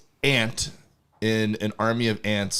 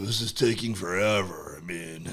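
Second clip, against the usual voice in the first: lazy beaver, slower. Acted. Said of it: "you'd slow the voice down".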